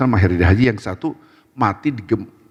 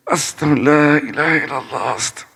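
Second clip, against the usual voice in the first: high, strained pious groan; acted pained invocation; praying through pain; 6 semitones higher than usual. Shown as a demonstration. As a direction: moan the holy words as if hurting. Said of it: "astagfirullahaladzim gitu kalau sakit".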